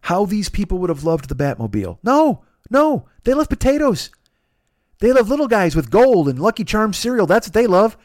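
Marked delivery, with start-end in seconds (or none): 2.0-8.0 ranting. Real, not acted. Mocking Irish stereotypes, ranting.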